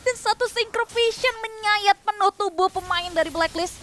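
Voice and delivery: rising play-by-play call; esports caster. Real, not acted. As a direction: build the hype on the fight.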